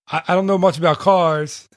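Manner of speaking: lightly voiced comedian impression; Mitch Hedberg. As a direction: put on a hint of the stand-up comic. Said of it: "I'll do another Mitch Hedberg accent".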